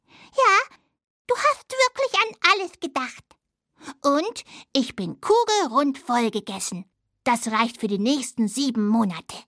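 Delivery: high little mouse voice; little hazel dormouse. Acted. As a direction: play a tiny friendly mouse, pitched high. (hohe Stimme einer kleinen Haselmaus)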